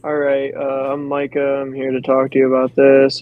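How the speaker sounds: a dull, low-key greeting; low-key mumbled pitch. Shown as a demonstration. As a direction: mumble through the intro like you don't care. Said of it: "I won't be like".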